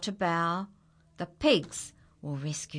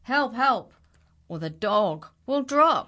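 calling for help; 4 semitones higher, 7 dB louder than usual. Acted. Dog trapped, calling for help.

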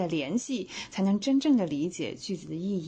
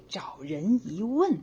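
slow demo read; much slower than usual. Shown as a demonstration. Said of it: "我们变成这个".

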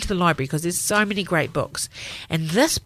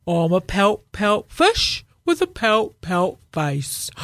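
glum, droopy pouting fish; gloomy fish voice; 3 dB louder, slower than usual. Acted. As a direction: sulk through the rhyme like a sad fish. Fish answers in its voice.

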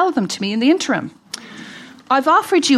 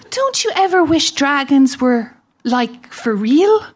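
put-on child voice; 2 semitones higher, slower than usual. Mother voicing her son.

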